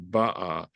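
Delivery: "ba'a" with its first syllable stressed, BA-a. Shown as a demonstration. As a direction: lean on the start of "ba'a". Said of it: "you cannot say this".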